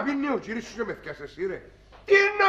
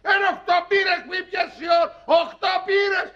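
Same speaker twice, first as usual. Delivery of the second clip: scolding shout; 4 semitones higher than usual. Acted. Father scolding his drunk friend.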